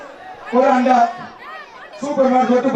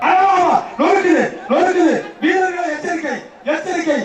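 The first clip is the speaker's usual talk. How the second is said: laughing announcer; 4 semitones higher than usual. Real, not acted. Excited commentary, laughter heard.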